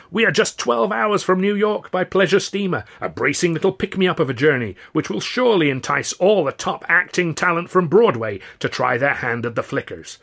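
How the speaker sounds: high, loud Southern politician; showman's oratory; booming mayor. Acted. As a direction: play to the crowd grandly. Mayor speech voice held.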